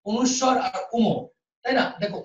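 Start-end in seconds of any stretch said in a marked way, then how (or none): 0.1-1.1 slow demo. Shown as a demonstration. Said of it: "লিখে দেখতে পাবেন না".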